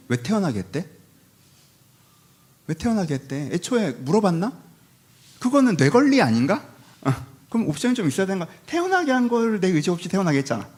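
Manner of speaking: petulant questioning, rising toward the end; mock cynical grumble. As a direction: grumble like a contrarian who never asked to be born. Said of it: "이런 스타일이야".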